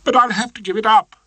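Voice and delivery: lightly voiced Miss Trant, distressed; young barrister giving up, upset; doleful young barrister.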